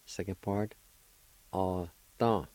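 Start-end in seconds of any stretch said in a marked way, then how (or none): 1.5-2.5 ah-tan in two separated syllables; teacher modelling ah-tan deliberately; careful pronunciation. Shown as a demonstration. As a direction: sound out ah-tan with a gap after ah. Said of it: "pronounced like this".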